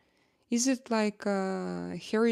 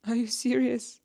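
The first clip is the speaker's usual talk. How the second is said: laughing it out, pitched up; real amused disbelief through a laugh; giggling are you serious; 4 semitones higher than usual. Real, not acted. Laughing disbelief at viewer's comment.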